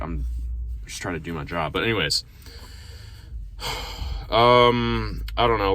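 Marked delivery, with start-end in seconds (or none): 0.0-1.7 understated, businesslike delivery; matter of fact. Acted. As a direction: state it simply, without making an issue of it. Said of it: "stay very matter of fact".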